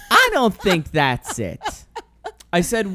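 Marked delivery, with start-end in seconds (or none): 0.1-1.6 slow doubtful quote. Retold or imitated. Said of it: "She goes".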